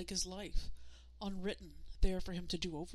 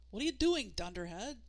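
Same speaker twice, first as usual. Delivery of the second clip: crabby; 3 semitones higher than usual. Acted. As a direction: snap at him, crabby. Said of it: "crabbed John".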